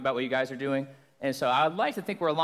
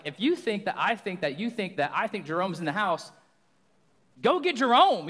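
exasperated rant; 4 semitones higher than usual. Retold or imitated. Exasperated reply to cops.

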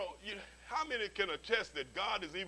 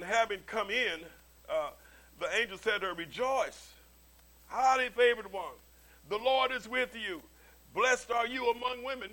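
louder, ringing proclamation of the angel's greeting; emphatic reading; 3 semitones higher, 5 dB louder than usual. Shown as a demonstration. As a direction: read it out boldly to the congregation. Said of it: "that sounds like, wow, hey, right on".

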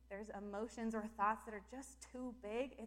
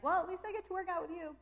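a lightly voiced higher resigned sigh; mock resigned; 8 semitones higher, 7 dB louder than usual. Telling God she'll just work out with him, mock resigned. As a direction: shrug it off to God. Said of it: "I'm like".

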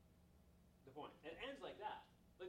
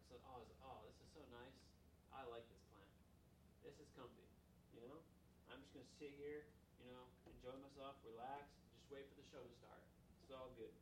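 contented Jonah; 3 semitones lower, 5 dB quieter than usual. Acted. Jonah enjoying the plant's shade.

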